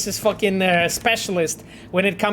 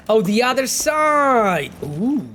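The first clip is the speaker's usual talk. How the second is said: suddenly catching on; sudden realization; 3 semitones higher, slower than usual. Real, not acted. Suddenly gets what chat means.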